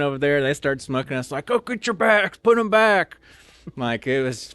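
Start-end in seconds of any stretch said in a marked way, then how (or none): 1.5-3.2 high, loud shouted order; drill sergeant yell. Retold or imitated. Drill sergeant ordering recruits back and forth, loud shout.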